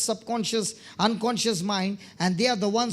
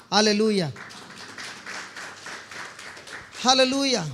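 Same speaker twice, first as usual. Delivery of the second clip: raised-voice call of praise. Real, not acted. Preacher calls out praise to congregation.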